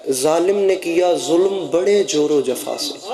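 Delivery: slow, measured verse recital; recited verse line. Shown as a demonstration. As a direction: recite the couplet evenly. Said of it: "وہ فرما گئے تھے". (مصرع آہستہ آہستہ پڑھنا)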